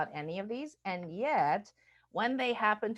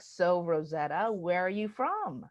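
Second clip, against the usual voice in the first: curious small talk; slower than usual. Retold or imitated. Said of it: "Folks are like".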